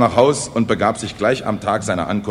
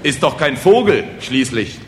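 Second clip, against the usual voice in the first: raised, emphatic peasant remark; sagely; 4 semitones higher, 4 dB louder than usual. Acted. Peasants comment on the fallen flier, sagely. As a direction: offer it as village wisdom. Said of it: "sagten weise die Bauern".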